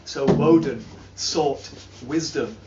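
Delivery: solemn saga teller with sweeping highs and lows; grave epic recital, rising and sinking; dramatic reading. Acted. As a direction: tell it like an old legend to a listening hall. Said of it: "doing a dramatic reading".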